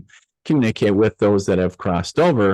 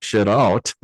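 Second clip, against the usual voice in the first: imitating a wife through gritted teeth; restrained mock exasperation, teeth clenched; lovingly gritted teeth. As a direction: squeeze it out with strained patience. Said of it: "lovingly with gritted teeth go".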